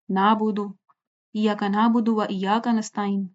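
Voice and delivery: "نعبدو" and "نستعین" with no throaty ain; common recitation. Shown as a demonstration. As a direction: run through "ایاک نعبدو" as iyaka naabudu. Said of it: "اس طرح سے پڑھتے ہیں نا". ("نعبدو" اور "نستعین" عین کے بغیر)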